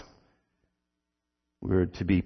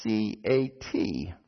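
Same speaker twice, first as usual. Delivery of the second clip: slow, soft, evenly spaced spelling; steady reply; 7 dB quieter, slower than usual. A narrator's reading. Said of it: "he replied steadily".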